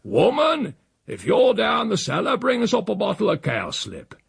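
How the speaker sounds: high bawl through the house. A narrator's reading. Uncle calls the housekeeper down in the cellar, bawling. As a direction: bellow an order to someone out of sight. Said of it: "he bawled into the silence".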